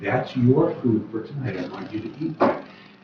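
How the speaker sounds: hushed, soft, close half-whisper. Retelling a teacher's words to a little boy at lunch: retelling a half-whisper. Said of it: "She's whispering to him".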